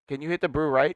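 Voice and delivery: joking Asian accent, L turned to R in "right". Shown as a demonstration. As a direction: say "blue right" for "blue light" in a mock Asian accent. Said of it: "that was my Asian accent".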